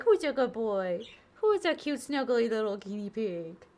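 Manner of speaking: cute pet voice. Shown as a demonstration. Showing viewers how owners talk to pets, cooing pet voice. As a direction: gush over the pet like a baby. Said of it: "you get your cute pet voice on".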